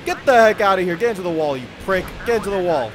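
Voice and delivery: mock villain taunt. Villain wrecking cars.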